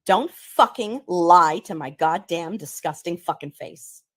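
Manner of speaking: slow, loud, furious, every word spat out; slow furious rant. Acted. Ranting at a liar to their face, slow and loud. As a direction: lay into a liar slowly and loudly. Same rant played again.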